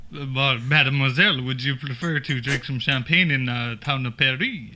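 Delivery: badly faked French accent; French suitor's accent, offering champagne. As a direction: put on a hammy French accent. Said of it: "How about a French accent".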